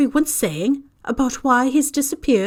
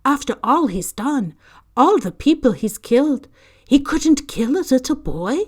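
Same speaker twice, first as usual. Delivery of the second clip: louder and higher, near tears; astounded, struggling to grasp it; overwhelmed amazement; 5 semitones higher, 8 dB louder than usual. A narrator's reading. McGonagall marvels to Dumbledore at Harry's survival, astonished.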